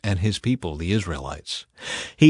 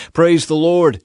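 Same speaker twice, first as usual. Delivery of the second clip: joyful exclamation; 6 semitones higher, 6 dB louder than usual. A narrator's reading. Jethro praising God joyfully.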